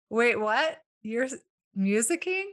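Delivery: musicking asked back with a disbelieving rise; incredulous. Retold or imitated. Hearing a new word at a restaurant table, baffled rising question. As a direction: repeat the strange word as if you can't believe it. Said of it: "And I was like".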